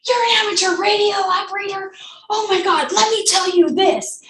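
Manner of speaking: a light imitation of an excited fanboy; fangirling. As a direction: gush like a starstruck fan. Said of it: "he's fangirling all over me".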